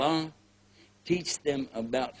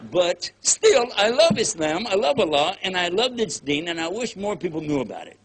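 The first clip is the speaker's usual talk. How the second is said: heartfelt; 3 semitones higher, 5 dB louder than usual. Real, not acted. Heartfelt declaration.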